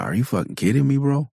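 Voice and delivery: high mock-incredulous dad voice; exasperated dad. Dad mocking his kid's nightmare, high and incredulous. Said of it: "I'm like".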